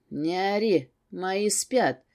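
ordinary delivery, nothing marked

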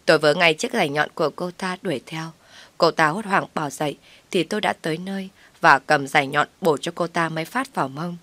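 usual speaking voice

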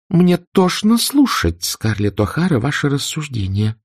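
cold hatred. A narrator's reading. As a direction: spit each accusation coldly. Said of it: "в голосе её звучала холодная ненависть".

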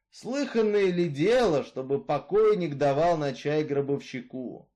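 Misfit, brooding killer. Acted. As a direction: tell her your grievance, hard and level. Misfit's reply. (голос Изгоя, громче и жёстче)

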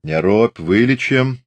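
mock the wounded man. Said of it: "насмешливо сказал приземистый казак".

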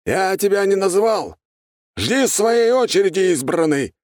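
loud, high, stern rebuke; stern shout. A narrator's reading. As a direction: scold him in front of everyone. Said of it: "строгий голос оратора". (строгий громкий окрик)

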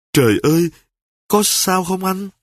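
stammering out her fear for her husband; stammering wife. Acted. A wife stammers in fright over her fallen husband. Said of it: "miệng lắp bắp".

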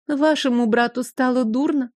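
put-on mincing society-girl drawl; coy and affected, like a capital fop. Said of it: "жеманно протянула я, подражая столичным фифам".

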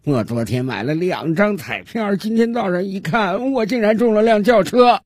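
mock crying. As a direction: play the weeping miser, dragging the words out. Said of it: "就坐在路边哭". (夸张哭腔，越说越高)

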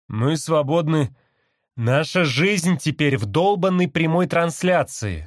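high, slow parrot chatter; parrot mimicking. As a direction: rattle it off like a talking bird. Parrot repeats slogan.

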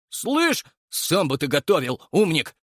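indignant. A narrator's reading. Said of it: "возмутился Макар".

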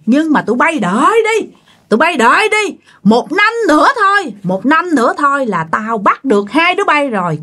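acted vengeful warning; scolding threat. Ghost vows to take both within a year, scolding. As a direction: warn them, pushing the repeated threats. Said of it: "mới quay qua chửi tiếp bà Hường".

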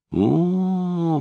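a long, high drawn-out О. A narrator's reading. Cheeky teen mocking the stern detective, drawn-out. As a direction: stretch the О out mockingly. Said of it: "протянул Джонсон".

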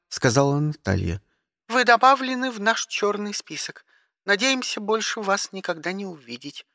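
high, clipped dispatcher tone; operator voice. Acted. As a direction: speak like a bored spaceport operator. (голос диспетчера)

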